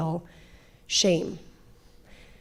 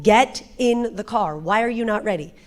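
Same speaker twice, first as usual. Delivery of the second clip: retold yelling; 2 semitones higher, 4 dB louder than usual. Mom yelling at her children to get in the car, mild retold yell. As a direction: yell it at the kids, held back. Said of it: "I am yelling".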